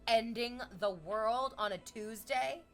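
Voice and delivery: furious disbelieving reader; mock outrage. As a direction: rant like an angry reader. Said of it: "being like".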